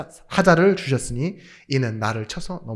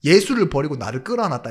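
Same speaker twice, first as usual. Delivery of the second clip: flippant; 5 dB louder than usual. Shown as a demonstration. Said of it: "제 수준대로 경박스럽게 말하면요".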